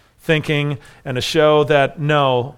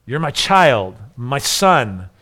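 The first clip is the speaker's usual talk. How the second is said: tender; 4 semitones lower, slower than usual. Retold or imitated. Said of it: "a tender, enduring title".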